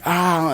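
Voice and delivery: high-pitched mock "ah"; imitated pain yell. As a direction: act out a cry of pain without volume. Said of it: "I'm yelling at this poor lady".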